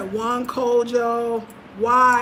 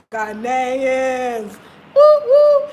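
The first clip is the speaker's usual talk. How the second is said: excited cheer; 8 dB louder, much slower than usual. Retold or imitated. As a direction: whoop along to the song like a fan. Cheering to the tune.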